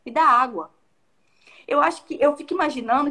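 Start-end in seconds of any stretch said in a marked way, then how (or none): 0.0-0.7 blunt command, not a question; as an order. Shown as a demonstration. Jesus telling the Samaritan woman to give water, commanding. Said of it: "É como se fosse uma ordem".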